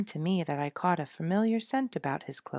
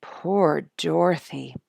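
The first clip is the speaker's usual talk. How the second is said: sympathetic; 2 semitones higher, 10 dB louder, slower than usual. A narrator's reading. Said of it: "sympathized Ginny".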